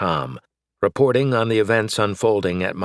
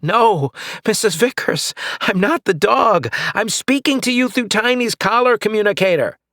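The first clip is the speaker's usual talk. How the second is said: high, loud explaining; calling out; 13 semitones higher, 4 dB louder than usual. Acted. Flint explaining to his neighbor, loud. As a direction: project the voice across.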